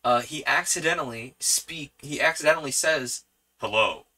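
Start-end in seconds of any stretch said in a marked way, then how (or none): 3.6-4.1 a hint of a low superhero voice; slightly deepened alter-ego voice; Electron. Nervous man slips into alter ego on a date, low voice. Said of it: "in his Electron voice".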